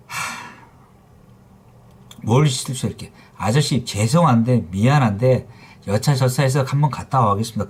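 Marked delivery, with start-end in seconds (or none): 3.4-7.7 polite apology. Shown as a demonstration. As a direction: model the courteous customer's request. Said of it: "그게 먼저 나와야죠".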